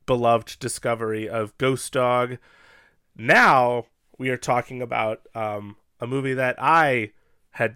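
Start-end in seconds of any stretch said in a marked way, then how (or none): 0.1-2.4 slow, formal host read; podcast host intro. Acted.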